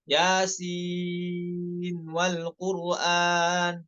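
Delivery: slow drawn-out tajweed chant; Quranic recitation. Shown as a demonstration. Teacher demonstrating the verse in slow recitation. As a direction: recite it slowly with long vowels. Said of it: "seperti tadi yang Anda contohkan".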